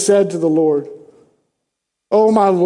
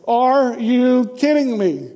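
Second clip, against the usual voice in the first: incredulous; 4 semitones higher, slower than usual. Real, not acted.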